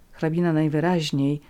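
ordinary delivery, nothing marked

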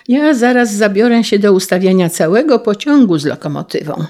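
put-on eager boy calling out. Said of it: "wołał Karolek".

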